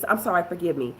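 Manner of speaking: quiet, humble husband's plea; mature apology. Shown as a demonstration. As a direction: ask forgiveness gently, calming the fight. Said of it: "Somebody gotta get mature and say".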